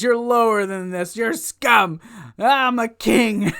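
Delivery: hammed-up gloat, stretching the last words; mock gloating. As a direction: sneer and boast like a smug winner. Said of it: "he's starting to gloat".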